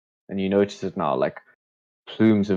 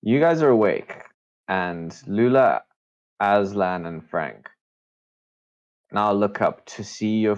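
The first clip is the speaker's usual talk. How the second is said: game master narration. A narrator's reading. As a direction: set the scene unhurriedly, phrase by phrase. Game master sets the scene.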